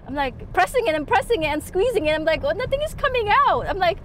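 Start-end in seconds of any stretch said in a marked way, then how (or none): 2.4-3.7 flustered panic. Retold or imitated. Retelling pump not working.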